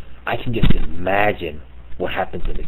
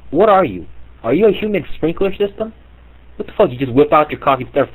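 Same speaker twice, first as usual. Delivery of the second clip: incredulous outburst; 6 semitones higher than usual. Real, not acted. Comic mocking the backyard-peeing dad, high and incredulous. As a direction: blurt it out in shocked ridicule.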